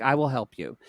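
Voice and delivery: lightly sweet, reassuring offer; sweet, kind voice. Retold or imitated. Retelling the nurse offering help for her dad, sweet and kind. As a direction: gently imitate a kind nurse. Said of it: "in her sweet, like, kind voice".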